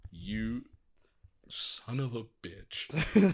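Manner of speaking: unvoiced whisper. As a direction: whisper it back. Whispered reply.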